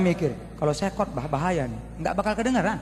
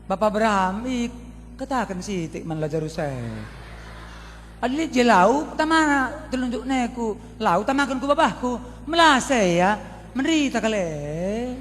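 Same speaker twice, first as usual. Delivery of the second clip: put-on Karo-accented plea; 3 semitones higher than usual. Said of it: "kalau orang Karo ya".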